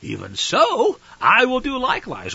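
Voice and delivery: mock a naive convert asking about foreign gods; a hint of a wide-eyed pagan copycat; mock pagan worshipper.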